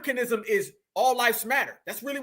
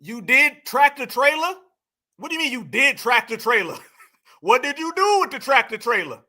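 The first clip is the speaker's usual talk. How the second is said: mocking disbelief. Real, not acted. Incredulous mockery of the clip's claim.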